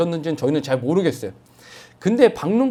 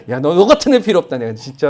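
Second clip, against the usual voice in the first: mock thunderous rebuke; 7 dB louder than usual. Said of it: "하면서 하실 것 같은데".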